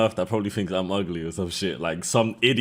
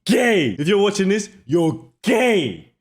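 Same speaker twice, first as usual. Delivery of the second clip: high, loud-edged disbelieving rant; mock outrage; 10 semitones higher, 3 dB louder, slower than usual. Mock outrage at the man's refusal.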